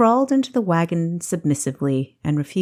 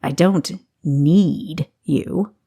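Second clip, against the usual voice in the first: bristling; much slower than usual. Acted. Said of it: "Augustus bristled".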